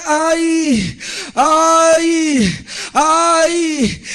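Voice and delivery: imitated drawn-out groan; long, acted cries of pain; agonized moan. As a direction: moan like suffering bodies. Bodies moaning in agony, retold.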